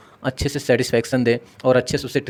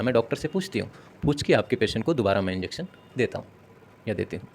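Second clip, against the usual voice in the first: lovingly reassuring. Shown as a demonstration. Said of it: "ऐसे आप प्यार से बोलेंगे".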